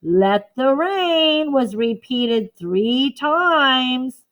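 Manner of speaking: slow, spelled-out for writing; slow dictation of a notebook line. Shown as a demonstration. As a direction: dictate slowly to copy.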